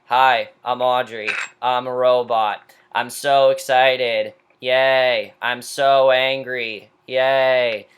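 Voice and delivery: slow, monotone robot imitation; mock her as a droning robot; lightly voiced robot, mocking slow drone; robotic Audrey. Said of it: "Talk in this robotic voice".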